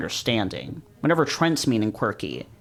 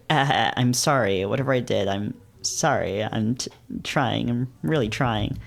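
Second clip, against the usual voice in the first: desperate and panicky. Acted. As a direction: apologize in a near-panic. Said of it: "His tone is desperate and borderline panicky".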